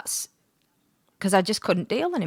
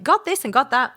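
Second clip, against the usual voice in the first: self-mocking; 6 semitones higher than usual. Mocks her own spiritual preaching.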